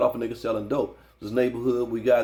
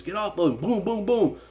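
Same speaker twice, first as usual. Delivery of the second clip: shouted warning and gunshots; 8 semitones higher than usual. Retold or imitated. Homegirl shooting, voiced in story.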